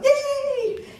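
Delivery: high, loud squeal of delight; hammed-up little hooray; mock cheer. Acted cheer ending hand cream pitch.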